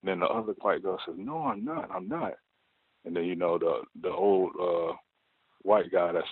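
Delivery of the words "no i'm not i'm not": imitating a panicked high voice, much higher; mock panicked coworker, pitched way up; panicked denial. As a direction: squeak out the denial like she's caught. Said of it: "she is just, like, panicking".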